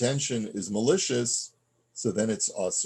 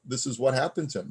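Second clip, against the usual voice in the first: nonchalant; 4 semitones higher, faster than usual. Shown as a demonstration. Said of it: "in a very, uh, nonchalant way, without any inflection".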